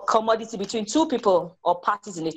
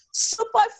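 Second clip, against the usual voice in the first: robot voice; 8 semitones higher, slower than usual. A narrator's reading. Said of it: "screeched the activi".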